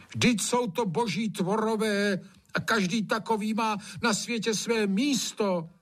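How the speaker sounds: high, earnest pleading; pleading gamekeeper. A narrator's reading. Gamekeeper pleading with Trautenberg, earnest. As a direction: beg for mercy for the frogs.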